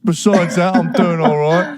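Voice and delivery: put-on rough working-class British accent, dragged out; working-class yob accent. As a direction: play a yobbish British dad. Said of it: "has a working class yob accent".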